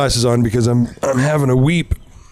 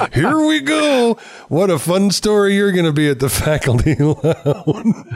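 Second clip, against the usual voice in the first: mocking inner voice; 7 semitones higher than usual. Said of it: "there's this calm, rational voice".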